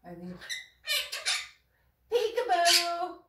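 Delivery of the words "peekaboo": "Peekaboo" drawn out slowly, higher; singsong peekaboo. Acted. Playing peekaboo with the parrot, slow singsong. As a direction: stretch "Peekaboo" out slow and sing it.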